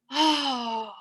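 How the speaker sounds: long sighing "oh"; deep-breath sigh. Shown as a demonstration. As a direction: let out a deep breath on the word. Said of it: "that deep breath we need to take".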